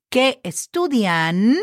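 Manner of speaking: "¿Qué estudian?" slow, long "Qué", clear final n; slow model phrase. Shown as a demonstration. Teacher giving the plural answer to the class, slow. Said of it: "change the S as in Sam for an N".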